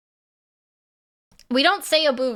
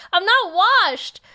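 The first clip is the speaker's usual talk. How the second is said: slow, higher, insistent denial; high, slow, mock-offended insistence; indignant protest; 8 semitones higher, 4 dB louder, slower than usual. Real, not acted. Protesting after shouting.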